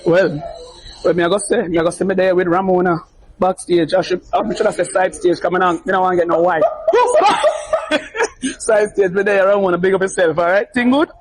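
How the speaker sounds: lightly put-on Jamaican patois, playful. Guest greets Ramona backstage in playful Jamaican patois. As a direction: play at talking Jamaican patois with the host. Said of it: "I'm gonna try to get in some patois".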